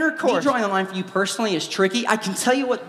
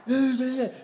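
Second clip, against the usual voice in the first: higher wordless preacher babble; mock fire-and-brimstone babble; mock evangelist ranting noises; 5 semitones higher than usual. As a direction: imitate a preacher going to town in gibberish. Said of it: "Purity evangelist is just going to town".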